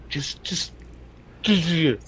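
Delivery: hushed unvoiced warning; whispering. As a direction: whisper it so he won't hear. Not saying the feared name.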